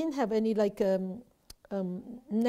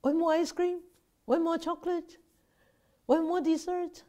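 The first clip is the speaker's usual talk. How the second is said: craving more; 7 semitones higher than usual. Retold or imitated.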